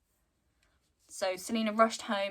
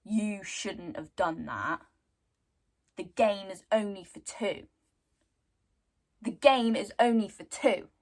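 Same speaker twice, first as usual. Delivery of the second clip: imitating a rattled husband; mock angry warning; 6 dB louder than usual. Wife retelling Cade's angry warning. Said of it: "Cade got angry, irrationally angry".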